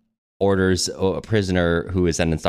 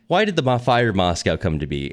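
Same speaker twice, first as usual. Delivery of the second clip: usual speaking voice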